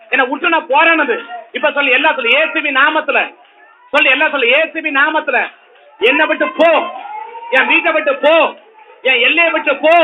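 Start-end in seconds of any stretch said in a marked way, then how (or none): 6.0-9.9 raised, forceful rebuke of an evil spirit; commanding deliverance prayer. Acted. Preacher rebuking the problem in Jesus' name, forceful. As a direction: drive the spirit out with full authority.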